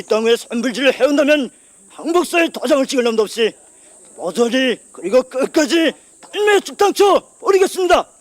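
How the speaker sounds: defiant vow. Acted. Soldier vows revenge on enemy.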